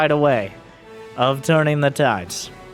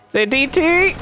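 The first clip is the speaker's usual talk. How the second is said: surprised; 11 semitones higher than usual. Real, not acted. Caster surprised by DT.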